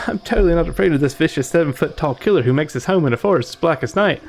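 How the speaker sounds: high, shaky bravado; nervous sarcastic voice. Acted. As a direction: fake bravery with a nervous laugh. Sarcastic scared character voice.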